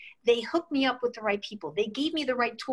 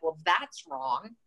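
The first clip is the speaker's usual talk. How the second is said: disappointed; 6 semitones lower than usual. Retold or imitated. Telling the interviewer about being passed over, low and deflated. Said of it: "I was very disappointed at the time".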